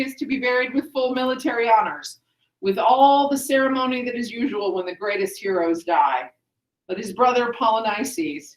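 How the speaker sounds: measured oratory, lightly formal; a touch of the proud new ruler laying down principles; lightly voiced Creon. Teacher reads Creon addressing the chorus, lightly declaimed.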